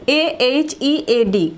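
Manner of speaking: letters "A H E A D" at an easier pace; spelling. Shown as a demonstration. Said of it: "বলে ফেলো". (বানান "A H E A D")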